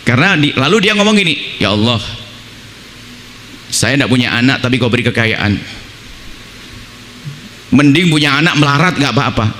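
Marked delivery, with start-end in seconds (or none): 1.6-9.5 low, soft grumbling plea to God; a mild grumble of a childless rich man; complaining prayer. Retold or imitated. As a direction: mutter it like a quiet complaint. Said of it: "ini bahasanya bukan orang kenal Allah dia".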